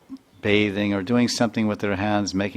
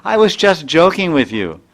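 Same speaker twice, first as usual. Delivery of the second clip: teasing laugh; 8 semitones higher, 8 dB louder than usual. Retold or imitated. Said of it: "then Tulsi says".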